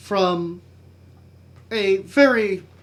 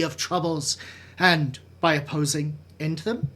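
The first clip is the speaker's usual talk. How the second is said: measured Shakespearean recitation with weighty pauses; dramatic soliloquy. Acted. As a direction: brood through Hamlet's soliloquy, letting phrases fall away.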